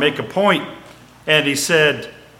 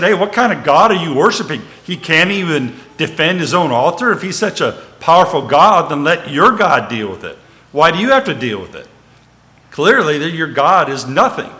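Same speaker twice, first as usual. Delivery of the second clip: lively retold taunt, a bit louder; scornful challenge; 3 semitones higher, 3 dB louder than usual. Joash to the Midianites about their powerless god, scornful challenge. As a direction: challenge them with mock incredulity, lightly acted.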